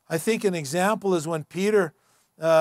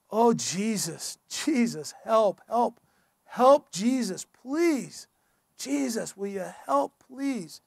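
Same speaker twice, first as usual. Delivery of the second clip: desperate prayer; 3 semitones higher, slower than usual. Acted. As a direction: beg Jesus for help under your breath.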